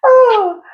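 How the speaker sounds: high, loud "oh" after laughing; catching breath after a laugh; laughing sigh. Real, not acted. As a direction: let out a high whoop of amusement. Winding down from a laughing fit.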